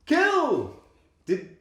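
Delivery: high, loud mock-witch yelling; hammed-up villain shouting. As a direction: holler it like an overacting film witch. Mocking the witch's overdone dialogue.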